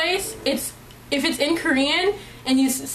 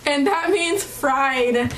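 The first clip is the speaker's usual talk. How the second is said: laughing; 3 semitones higher, much slower than usual. Real, not acted. Laughing at her own story.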